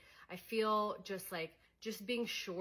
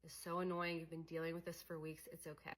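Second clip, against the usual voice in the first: reassuring self-talk; 2 semitones lower, 6 dB quieter than usual. Shown as a demonstration. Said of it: "being like".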